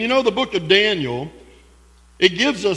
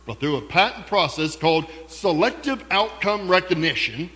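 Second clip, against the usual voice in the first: infomercial announcer; 3 semitones higher than usual. Pretend. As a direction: sell it like a late-night ad. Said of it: "It sounds like an infomercial".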